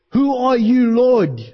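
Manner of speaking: a startled, urgent question to an unseen voice; Saul's stunned question. Retold or imitated. Preacher voicing Saul asking the voice from heaven, startled and urgent. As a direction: ask it like a man just thrown to the ground. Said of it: "Saul responds like this".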